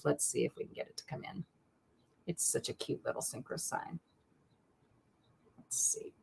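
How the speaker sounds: barely voiced, under her breath; muttering to herself. Real, not acted. Host muttering to herself as she tries to get the card in shot, whispered. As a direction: whisper to yourself while fiddling with the camera.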